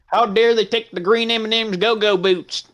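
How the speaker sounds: high-pitched sarcastic mock outrage. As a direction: parody the whiny fans. Mocking outraged fans.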